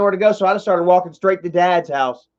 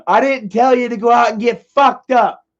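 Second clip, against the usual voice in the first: higher-pitched scolding, imitating dad; retold angry rebuke; 6 semitones higher than usual. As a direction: scold like a fed-up father, reenacted.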